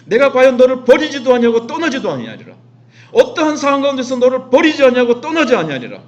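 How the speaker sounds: loud, high declaration of a divine promise; forceful proclamation. Acted. Preacher voices God's promise never to abandon us, forceful loud proclamation. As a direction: thunder out the promise, dropping at the close.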